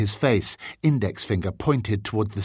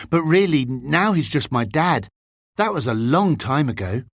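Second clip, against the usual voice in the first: lightly voiced boy, starting higher and louder; modest boy; 5 semitones higher, 3 dB louder than usual. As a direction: brush off dad's fame, lightly in character. James plays down his dad's fame.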